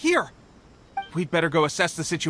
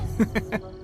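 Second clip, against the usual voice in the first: short, soft, breath-only laugh; smug little chuckle at a challenge; confident chuckle; 4 dB quieter than usual. Acted.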